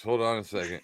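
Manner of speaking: talking with hiccups; hiccuping mid-sentence. Real, not acted. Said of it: "you laughed me into the hiccups".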